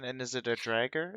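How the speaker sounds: "dragger" said with an added R after the D; slip echoed. Retold or imitated. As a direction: query the slip, "dragger" for dagger. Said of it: "Is that what you called it?".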